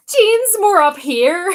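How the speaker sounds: high, loud, slow imitation; Jean. Mimicking a friend's aunt, high and loud. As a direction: push the voice way up high. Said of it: "very good imitation of her aunt".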